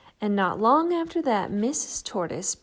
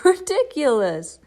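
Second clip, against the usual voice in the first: louder jeering laugh and sneer; mocking laugh; 5 semitones higher, 7 dB louder than usual. Dog mocking Shelley, loud jeering laugh. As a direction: laugh her idea away.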